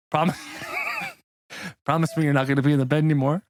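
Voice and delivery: low, quick, no-nonsense request; undisguised Santa. Retold or imitated. Will as Santa asking Win for a promise, low and deadpan. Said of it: "without changing his voice".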